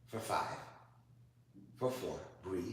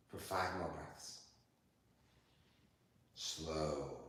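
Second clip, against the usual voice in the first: yoga class cueing; 3 semitones lower than usual. Acted. Yoga teacher cueing her student through poses, calm and unhurried.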